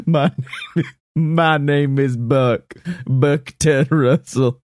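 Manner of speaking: slow, deliberate character voice at normal pitch; clone voice. Acted. Clone repeating his name to his creator, slow deliberate voice. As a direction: state the name slowly, word by word.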